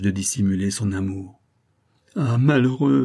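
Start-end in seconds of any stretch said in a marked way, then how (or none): 2.2-3.0 frantic terror. A narrator's reading. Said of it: "répéta-t-elle avec le délire de l'épouvante".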